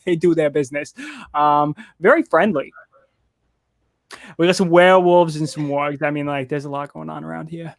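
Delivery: put-on light Minnesotan accent, easygoing; a folksy Minnesotan tree drawling gently. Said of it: "the trees have got a thick Minnesotan accent".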